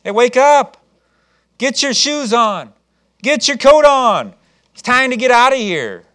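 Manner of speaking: loud, slow, firm commands; urgent orders. Acted. Angel ordering Peter to dress and leave, loud and urgent. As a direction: hurry him out of the cell.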